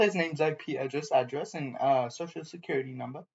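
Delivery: low, quick, creepy murmur; sinister hush. Acted. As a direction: con him softly, quickly. Sinister data-grabbing character.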